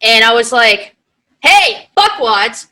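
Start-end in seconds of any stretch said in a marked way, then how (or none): 1.4-2.7 high, slow, drawn-out insult; mock call-out. Retelling calling the frat boys out, high and slow. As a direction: call the frat boys out, stretching every word.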